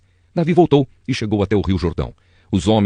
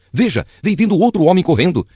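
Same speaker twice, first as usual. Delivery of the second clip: calling out; 9 semitones higher, 3 dB louder than usual. Acted. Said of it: "gritou para o guarda do portão".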